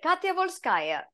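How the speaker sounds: high, drawn-out character voice; Sombra. Shown as a demonstration. Actor playing with a line in the booth, slow high character voice. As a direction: stretch the name in one slow sweep. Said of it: "we were playing with".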